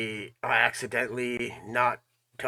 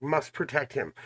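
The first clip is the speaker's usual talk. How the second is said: mocking repetition. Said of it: "She kept saying that over and over again".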